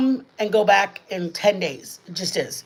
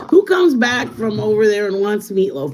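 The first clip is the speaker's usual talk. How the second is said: playful exclaim; 6 dB louder than usual. Real, not acted. Joking about daughter wanting meatloaf.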